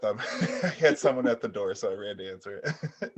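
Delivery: laughing while still out of breath; breathless laugh. Real, not acted. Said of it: "Sorry, I'm out of breath".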